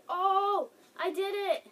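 high, loud cry of success; excited triumph. Real, not acted. Player lands a hard jump, excited triumph. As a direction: exclaim proudly at pulling it off.

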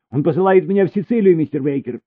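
fast and high, words tumbling; hurried. A narrator's reading. Elina hurriedly tells Mr Baker on the phone, fast. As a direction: rush it out on the phone. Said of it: "быстро сказала она".

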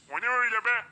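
surprised. Real, not acted. Sees something strange.

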